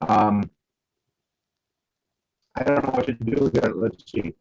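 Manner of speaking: breaking-up phone line; bad connection, audio cutting out; crackly phone. Real, not acted. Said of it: "Yeah, you're all crackly".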